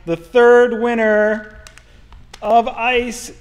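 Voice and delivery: slow drawn-out announcer call; fighting game announcer. Pretend. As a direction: stretch it like a ring announcer. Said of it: "I like your announcer voice".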